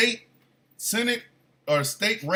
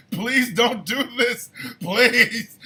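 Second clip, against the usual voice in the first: laughing plea; 3 semitones higher, much slower than usual. Retold or imitated. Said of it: "I'm now high and laughing".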